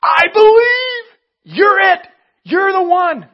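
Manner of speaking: high, loud, stretched cry of faith; excited declaration. Retold or imitated. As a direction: proclaim it like you've just realised it. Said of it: "He made a declaration of".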